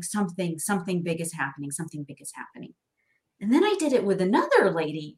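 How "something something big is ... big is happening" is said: dropping to a hushed, fast awe; awed whisper. Retold or imitated. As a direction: fade to an almost-whisper, overwhelmed. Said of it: "you're like".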